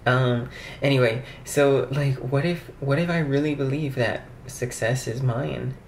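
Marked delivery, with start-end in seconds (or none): 2.8-5.8 "mine" with a nasal vowel, like a regional accent; odd mine. Shown as a demonstration. Vlogger retrying her affirmation, "mine" oddly nasal. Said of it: "Why do I say mine like that?".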